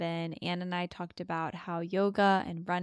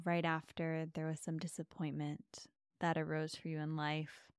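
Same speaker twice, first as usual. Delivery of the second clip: guided meditation. Acted. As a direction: ease them into calm with long pauses.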